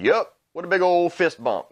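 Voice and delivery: high mocking read of the tweet; mocking quote. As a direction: squeak it out like a smug kid. Quoting Johnson's tweet mockingly.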